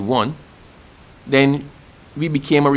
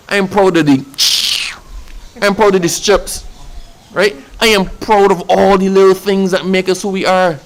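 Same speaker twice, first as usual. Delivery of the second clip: higher, rising pride in every line; proud and excited; 5 semitones higher than usual. Real, not acted. On national day radio, telling listeners about Bajan pride, excited. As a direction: swell with pride for the island.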